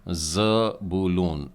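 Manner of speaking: ज़बूलून with a buzzing z sound; Hebrew pronunciation. Shown as a demonstration. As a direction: say ज़बूलून with a clear z. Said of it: "इब्री उच्चारण". (इब्री उच्चारण में ज़बूलून)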